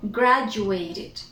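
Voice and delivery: "Graduated" said carefully, ending in "tid"; "Graduated" with the final "id" sounded; pronounced -ed ending. Shown as a demonstration. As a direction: model every syllable of "Graduated". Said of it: "that becomes graduated".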